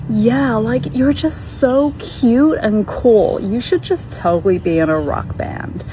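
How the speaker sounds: high, drawn-out compliment; gushing American woman. Retold or imitated. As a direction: imitate an American stranger gushing. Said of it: "she was like".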